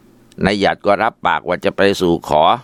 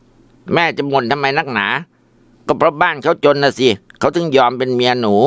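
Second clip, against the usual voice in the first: higher, slow sulky retort; annoyed; 5 semitones higher than usual. Acted. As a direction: whine back at a nagging mother. Son snaps back at mother.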